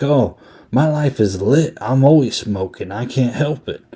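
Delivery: lightly mock a pimp shrugging off confession; Frankie the Mermaid. Pimp brushing off the priest in the confessional, flippant. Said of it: "not really taking it seriously".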